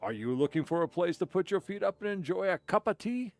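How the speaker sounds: a hammed-up hawker calling out to a customer; voicing the tea seller. Streamer voices the tea seller hailing a passing customer, hammed-up.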